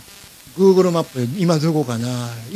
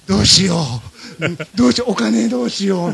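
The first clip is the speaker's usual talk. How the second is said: flustered; 3 semitones higher than usual. Retold or imitated. Shopper finds the Switch and worries about money, flustered.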